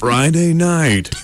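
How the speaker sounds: very low, slow announcer voice; title-card announcement. Acted. Announcing the next part of the weekend, deep and slow. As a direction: intone it deep and drawn out.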